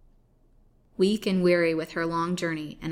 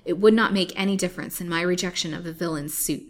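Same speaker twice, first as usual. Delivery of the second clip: defiant; 5 dB louder than usual. Acted. Lily defies her captors.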